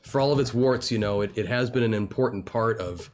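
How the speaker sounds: lightly voiced smoky old mentor; a hint of a whiskey-and-cigarettes voice; smoker whiskey voice. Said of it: "Smoker Whiskey voice".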